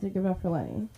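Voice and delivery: affection in an everyday, unemphatic tone; unconvincing affection. Real, not acted. Host praising Lenny to the crowd, unconvincing affection. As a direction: praise them without sounding like it. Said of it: "my tone doesn't sound like it".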